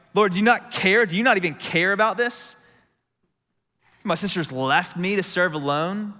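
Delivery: mock-snarky complaint; hammed-up indignant whine to the Lord; a touch of sarcastic grievance; snarky Martha. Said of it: "the snarkiness in my voice".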